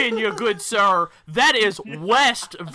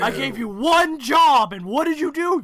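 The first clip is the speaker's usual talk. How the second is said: mock scolding; 8 semitones higher, 5 dB louder, slower than usual.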